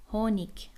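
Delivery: "هونیک" starting on an audible h; h pronounced. Shown as a demonstration. Teacher showing learners that h is read, audible h in "هونیک". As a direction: sound the h at the front of "هونیک".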